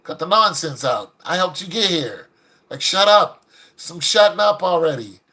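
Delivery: retold husband's stern scolding; straightening her out. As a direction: put her in her place, lightly acted. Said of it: "he straightened her out".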